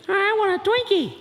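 put-on high-pitched child's demand; whiny little kid. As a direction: whine it like a small child.

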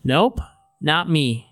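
drawn-out, casual denial; feigned innocence. Acted. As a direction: stretch out a breezy denial. Peter feigns ignorance when questioned.

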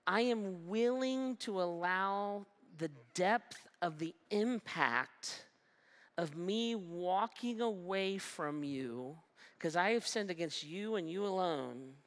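slow, earnest and sincere; sincere repentance. Retold or imitated. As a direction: lay it down humbly, slowly. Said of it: "He's saying".

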